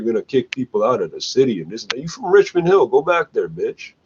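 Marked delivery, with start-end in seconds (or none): 2.0-3.9 rising into a high yell; angry shouting. Real, not acted. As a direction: yell it at him, pitch climbing high. Telling a guy off.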